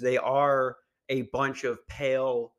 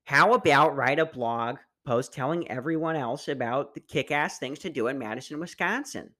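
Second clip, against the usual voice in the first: put-on Wisconsin accent. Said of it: "read this in a fat Wisconsin voice".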